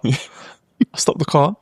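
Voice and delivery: "I stopped the car" drawn out very slowly with a rising end; slow, deliberate retelling. Shown as a demonstration. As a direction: stretch out "I stopped the car" for dramatic weight.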